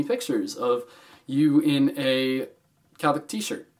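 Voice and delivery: halting, slow, with awkward gaps; slow with pauses. Shown as a demonstration. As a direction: drag it out, pausing before Catholic. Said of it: "That coulda sounded really weird".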